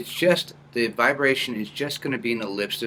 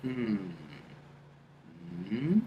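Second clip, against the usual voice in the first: hum coming down; 2 semitones lower, 8 dB quieter than usual. Shown as a demonstration. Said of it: "allow the sound to come down".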